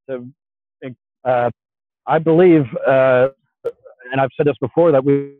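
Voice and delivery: choppy cutting-out connection; glitching audio. Real, not acted. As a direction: voice breaking up on a bad line. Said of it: "you keep cut-, uh, cutting out".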